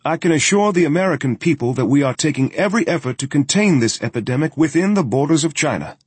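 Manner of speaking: hammed-up Southern president voice; Southern accent. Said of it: "say it in your best Southern accent".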